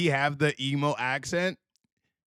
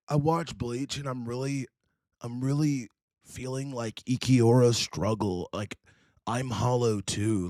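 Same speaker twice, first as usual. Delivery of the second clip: mock emo confession; 2 semitones lower than usual. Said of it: "what he would do is like".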